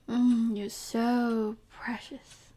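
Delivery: slow, drawn-out, savoring condescension; condescending coo. Acted. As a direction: stretch it out, patronizing the naive pet. Captor condescends to naive victim.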